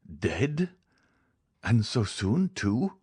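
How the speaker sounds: mildly astonished, rising questions; amazed sympathy. A narrator's reading. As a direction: ask it in pained surprise, lifting at the end. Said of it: "exclaimed with real amazement and sympathy".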